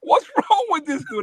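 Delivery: high, slow mock sister voice; lightly voiced sister tattling to mom; sister telling mom. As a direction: whine it to mom like a puzzled kid sister. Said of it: "and said".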